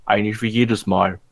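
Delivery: talking with a cookie in mouth; chewing while talking. Real, not acted. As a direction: chew a cookie while speaking. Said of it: "ich esse gerade noch einen Keks".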